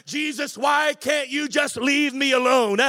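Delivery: pleading as the irritated blind man; blind man's complaint. Acted. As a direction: ask Jesus why he won't leave you alone. Preacher voices the irritated blind man.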